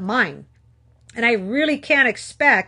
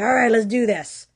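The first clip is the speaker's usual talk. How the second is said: psyching myself up; 3 dB louder, much faster than usual. Retold or imitated. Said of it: "I'd psych myself up".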